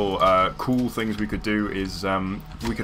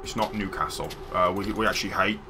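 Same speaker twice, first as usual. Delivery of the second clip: Middlesbrough accent. Shown as a demonstration. Streamer demonstrating how people in Middlesbrough talk, fake Middlesbrough accent. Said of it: "a Middlesbrough accent".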